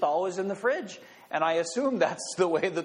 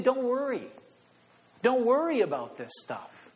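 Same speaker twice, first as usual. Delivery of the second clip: reassuring Jesus; 7 semitones higher than usual. Retold or imitated. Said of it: "He's saying".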